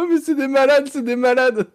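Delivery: movie quote voice. Retold or imitated. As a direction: shout it like the film line. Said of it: "c'est dans Astérix, je crois".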